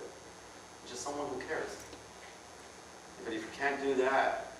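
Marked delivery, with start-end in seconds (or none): 0.0-1.8 slower, softer near-whisper of mock care; slow fake-caring hush. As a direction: drag it out softly like a fake friend. Feigned concern repeated.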